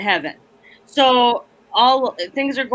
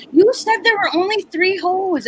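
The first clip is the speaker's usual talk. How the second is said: teacher correcting; 8 semitones higher than usual. Retold or imitated. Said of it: "and I'm like".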